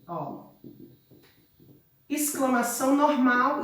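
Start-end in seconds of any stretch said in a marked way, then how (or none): 0.0-0.5 teacher shouting it as an example of exclamation. Shown as a demonstration. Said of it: "se fosse uma exclamação, se eu quero falar".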